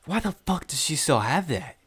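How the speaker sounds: high-pitched, incredulous outburst; exasperated disbelief. Retold or imitated. After blocking her, exasperated disbelief. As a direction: pitch it up in baffled outrage.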